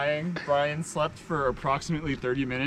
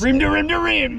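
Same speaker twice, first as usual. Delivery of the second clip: excited cheer; 11 semitones higher, 7 dB louder than usual. Real, not acted. Cheering the route name.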